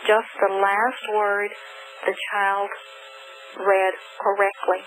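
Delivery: put-on slow, deliberate prompt to the child; gently steer the child back, unhurried; slow teacher prompt. Shown as a demonstration. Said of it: "will go back and say".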